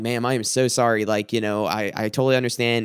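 lightly acted meek apology; humbling apology. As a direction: retell it humbly, placating her. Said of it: "I'm just humbling myself".

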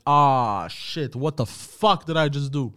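slow, stunned retold curse; mild mock panic after sobering up; dawning dismay. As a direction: let the realization sink in. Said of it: "I was like".

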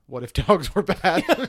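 slow, punchy trailer delivery with a laugh; movie tagline voice. Pretend. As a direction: read it like a horror movie poster line. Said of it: "that was the slogan for Cujo".

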